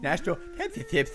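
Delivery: put-on stammering babyish read, squeaky breaks; baby talk. Asked to talk like a baby, host stammers the question babyishly. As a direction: stumble through it like a toddler. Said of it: "Talk like a baby".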